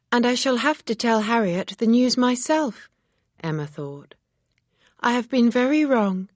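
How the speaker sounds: lightly voiced remorse; Emma, regretful and self-reproaching.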